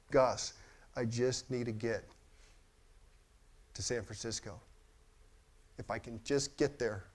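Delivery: soft, halting retold plea; understated tearful begging, with long pauses; mildly imitated tearfulness. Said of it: "she's crying".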